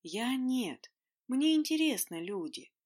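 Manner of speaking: lightly voiced cheerful phantom; cheerful croak. A narrator's reading. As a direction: croak it out gladly. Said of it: "жизнерадостно прохрипел фантом".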